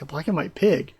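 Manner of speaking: flat statement falling at the end; deadpan retelling. Retold or imitated. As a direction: say it blankly, unimpressed. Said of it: "He's just like".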